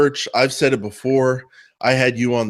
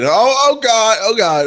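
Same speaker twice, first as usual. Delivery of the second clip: high, loud hammed-up alarm; mock panic; 10 semitones higher, 6 dB louder than usual. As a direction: cry out as if disaster strikes. Mock panic at cars crashing.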